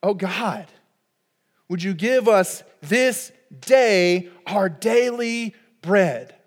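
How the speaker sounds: tender prayer. Pretend. Sung prayer over music.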